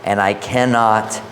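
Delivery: measured, solemn Bible reading; scripture reading. Acted. Preacher reads Jephthah's vow to the congregation, measured scripture reading. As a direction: read scripture aloud with deliberate phrasing.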